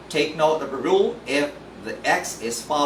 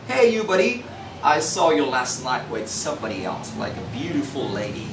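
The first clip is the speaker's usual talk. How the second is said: teasing friend; faster than usual. Acted. Friend teasing a buddy he saw with a lady. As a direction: tease a buddy about last night. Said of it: "which is saw".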